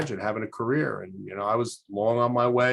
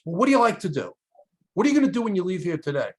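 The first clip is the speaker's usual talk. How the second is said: higher, imitated probing questions; pressing nun; 8 semitones higher, 4 dB louder, faster than usual. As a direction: press for an answer as the counselor. Nun presses student for answers.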